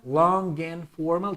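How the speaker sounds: "Long and formal" drawn out but linked, rising at the end; slow linked "Long and formal" with a questioning lift; connected words. Shown as a demonstration. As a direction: run "Long" into "and" without a break, slowly. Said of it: "try to connect this".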